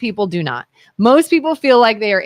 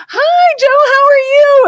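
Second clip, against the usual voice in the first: much higher, slow, sing-song fake cheer; fake cheerful greeting; 6 dB louder, slower than usual. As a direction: greet him brightly, pretending you remember. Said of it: "it's like".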